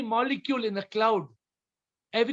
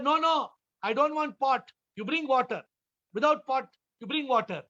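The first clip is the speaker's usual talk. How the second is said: higher, insistent scolding; Swami still shouting; 6 semitones higher than usual. Retold or imitated. Swami scolding the student to bring water without a pot. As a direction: hammer home the demand at him. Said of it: "the Swami starts shouting".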